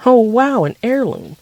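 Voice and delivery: high, loud surprised gasp of wow; stunned by the gift. Acted. Daughter surprised by Dad's heirloom necklace, loud and high.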